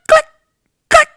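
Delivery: short, dry clicks; imitated coaster click. Host imitating the roller coaster for Tom J, clicking. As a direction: tick like a coaster chain. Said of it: "it's saying click".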